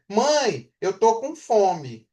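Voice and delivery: put-on a child's plea, slow and drawn out; child asking mom. Shown as a demonstration. Teacher voicing a child asking mom for food, slow and drawn out. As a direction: say it slowly, like a hungry child. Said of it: "Ela fala assim".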